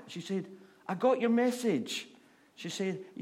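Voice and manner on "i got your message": higher and louder, beaming; excited man. Retold or imitated. Man shouts his thanks up to the nun, higher and loud. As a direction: tell her gleefully.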